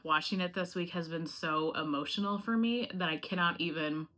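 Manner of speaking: holding back crying, barely steady; real emotion about the fires, close to tears; choked up. Real, not acted. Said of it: "I'm sorry to get emotional".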